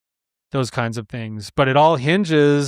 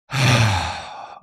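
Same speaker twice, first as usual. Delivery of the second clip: long audible sigh out through the mouth; demonstration sigh; 2 semitones lower than usual. Shown as a demonstration. Before answering his wife, a slow releasing sigh. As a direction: let the breath go in a slow sigh. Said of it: "I even let it out like a sigh like that".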